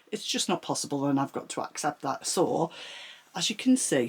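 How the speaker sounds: talking while out of breath; winded, between breaths. Real, not acted. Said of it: "sorry I'm still so out of breath".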